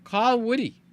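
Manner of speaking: lightly acted voice command. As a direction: talk to the phone like an assistant.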